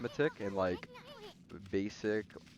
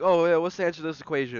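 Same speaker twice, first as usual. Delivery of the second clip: teacher quizzing; 7 semitones higher, 10 dB louder, faster than usual. Retold or imitated. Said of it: "he would be like".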